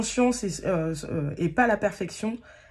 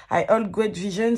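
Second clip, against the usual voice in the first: French accent; 2 semitones higher, 5 dB louder than usual. Real, not acted. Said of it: "cet accent absolument abominable".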